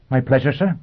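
high, crisp, distinct robot voice. Acted. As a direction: speak like a cheerful machine. Robot answering Foyle.

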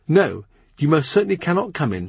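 put-on a prim young girl guarding the door; young lady-in-waiting. Mary Howard barring the door.

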